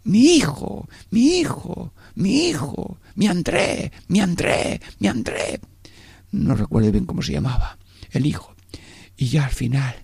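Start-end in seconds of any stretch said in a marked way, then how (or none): 0.0-5.6 high, wailing lament for her son; keen for your lost son; imitated weeping mother. Mother from Tenerife weeping for her son, imitated wail.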